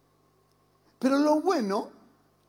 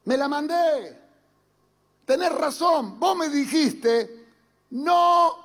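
lightly voiced child owning up, higher and louder; confessing child; 5 semitones higher, 5 dB louder, slower than usual. Believer confessing to God like a child, lightly acted. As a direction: admit it like a kid caught out. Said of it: "Está diciendo".

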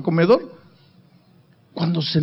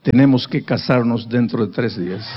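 a hint of a lower earnest young man; young man's voice, lightly voiced; 6 semitones lower than usual. Young man telling her of his mission dream, lightly voiced lower. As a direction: drop the voice lower and keep it steady.

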